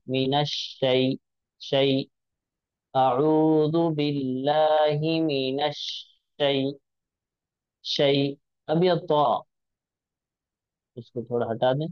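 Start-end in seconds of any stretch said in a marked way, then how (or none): 0.1-8.4 शै soft and quick, rising; correct soft shai. Shown as a demonstration. Teacher reading the correct शै for students. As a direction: read शै gently and smoothly. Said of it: "तो अब हम इसको पढ़ेंगे".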